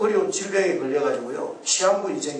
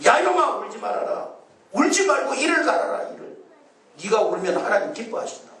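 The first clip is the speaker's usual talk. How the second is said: scolding roar; 5 semitones higher than usual. Retold or imitated. Pastor voicing the devil scolding weeping souls, mock furious roar. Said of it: "호통을 치면서".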